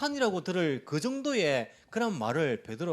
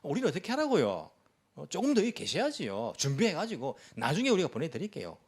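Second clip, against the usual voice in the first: raised pitch, pretend indignation; mock upset protest; 2 semitones higher than usual. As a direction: imitate congregants pleading with the pastor. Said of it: "화를 내면서".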